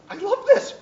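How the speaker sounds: loud, high mock outburst, still too cheerful; half-hearted angry try. Told to haggle angrily in the shop, a mock angry yell. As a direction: fake a temper, but gush about the toys. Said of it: "Get angry".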